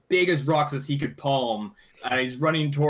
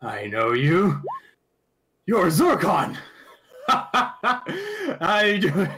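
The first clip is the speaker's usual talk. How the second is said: dwarf voice. Acted. Dwarf recognizes Zorkon.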